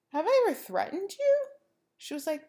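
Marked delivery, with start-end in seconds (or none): 0.1-1.4 sharp, pointed demand, higher and louder; confronting roommate. Retold or imitated. Retelling how she challenged her scared roommate, rising indignant demand. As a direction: press her hard for an answer.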